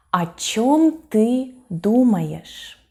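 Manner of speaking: slow, careful teacher's example question; unhurried, evenly spaced demonstration; slow model sentence. Shown as a demonstration. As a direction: read it out slowly for language learners.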